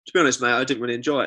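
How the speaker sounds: fast, muttered tourist grumble; mumbled customer complaint. Retold or imitated. Ex-tourism worker imitating customers, quick and low. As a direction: rattle it off like a fed-up visitor. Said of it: "They'd be like".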